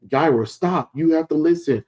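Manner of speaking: lightly dramatized warning; retold urgent plea. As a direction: act out urging someone to stop. Acted warning to Yaira to stop.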